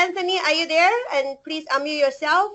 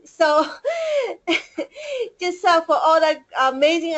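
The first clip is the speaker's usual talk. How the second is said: tearful laugh; 4 semitones higher than usual. Real, not acted. Emotional thanks to the CEO.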